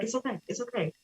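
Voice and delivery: very soft, hushed soothing; soft reassurance. Retold or imitated. Daughter retelling her mom calming the crying family, hushed reassurance. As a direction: imitate a strong mother quietly comforting everyone.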